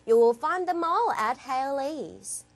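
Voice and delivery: slow, measured English ad read; deliberate ad copy with lifted list items; advertisement read. Shown as a demonstration. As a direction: model a shop advert for learners. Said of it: "이렇게 읽어주시는 광고문입니다".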